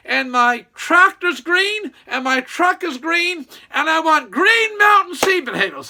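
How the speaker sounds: drawn-out insistent correction, lightly voiced; mock-stern customer correcting the name; imitating Miles.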